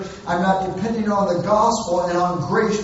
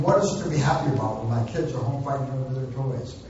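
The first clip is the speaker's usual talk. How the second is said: mock-mournful parent laying on guilt, a bit lower; guilt-trip parent; 3 semitones lower than usual. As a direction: sigh it out like a martyred parent. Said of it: "make them feel bad for how bad they've been".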